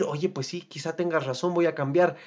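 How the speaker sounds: soft sincere concession; calm, accepting. Retold or imitated. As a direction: quietly admit the partner is right. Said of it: "en lugar de decir".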